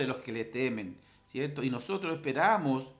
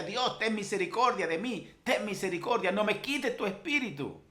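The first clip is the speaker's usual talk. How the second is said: raised-pitch retold plea to God; mildly impassioned plea for mercy; crying out to heaven; 6 semitones higher than usual. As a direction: imitate David's cry without really shouting. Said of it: "David gritaba al cielo".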